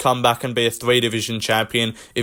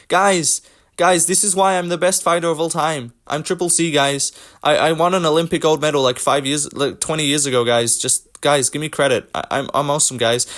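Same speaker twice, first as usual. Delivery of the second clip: mocking Henry Cejudo; 2 semitones higher than usual. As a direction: play a self-important fighter pleading with his fans. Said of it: "Like, Henry Cejudo".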